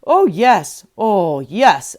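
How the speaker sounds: loud eager donkey; donkey agreeing eagerly, loud; eager agreement. A narrator's reading. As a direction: agree hungrily and loudly. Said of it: "added the donkey".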